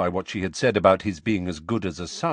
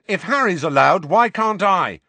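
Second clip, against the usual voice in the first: put-on high, loud, aggrieved boy; indignant raised-pitch shout; shouted protest; 11 semitones higher, 8 dB louder than usual. A narrator's reading. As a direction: shout it as unfair. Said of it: "shouted Ron".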